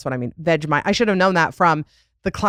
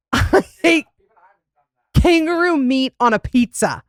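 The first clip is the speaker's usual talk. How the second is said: giggling, pitched up; laughing; 6 semitones higher than usual. Real, not acted. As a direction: laugh through the confession. Laughing at own story.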